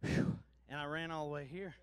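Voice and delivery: winded after running; panting between words; out of breath. Real, not acted. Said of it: "Whew, I'm out of breath".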